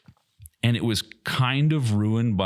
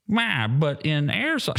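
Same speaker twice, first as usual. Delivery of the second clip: mock whine; 6 semitones higher, slower than usual. Mocking unknown radio caller.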